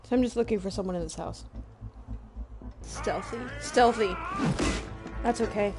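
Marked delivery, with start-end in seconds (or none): 3.6-4.1 louder, falling repeat. Real, not acted. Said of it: "repeated louder".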